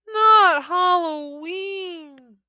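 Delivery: high, slow drawn-out moan. Acted. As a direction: moan it in mock despair. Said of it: "they moaned".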